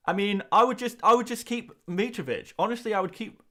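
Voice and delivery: high, nasal-free cartoon mom voice; Lois Griffin voice. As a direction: sound like a sitcom cartoon mom. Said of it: "Sounds like Lois Griffin".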